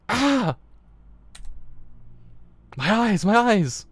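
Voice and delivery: high, loud, slow wail; mock agony scream. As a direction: ham up a victim clutching their eyes. Reading the game's gory moment.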